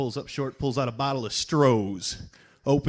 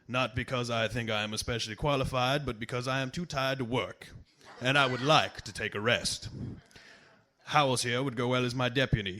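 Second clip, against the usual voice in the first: put-on lightly formal reading of an old text; reading aloud. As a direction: read it out like a quoted speech. Reads out a Twain piece.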